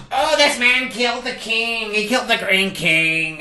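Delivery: high-pitched mimicked fuss; mock outcry. Gatekeeper retells the fuss over the prisoner, mock outcry. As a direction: mimic an overblown public accusation.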